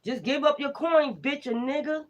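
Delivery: high, taunting spirit demand; hostile spirit demanding. Retold or imitated. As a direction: sneer it out as the greedy spirit. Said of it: "Don't give a fuck".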